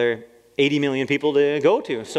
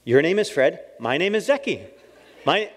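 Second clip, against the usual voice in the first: higher, earnest recital, pitch lifting on Zeki; proud beginner; 4 semitones higher than usual. Retold or imitated. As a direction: say it like a proud new phrase. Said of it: "And I'm just like".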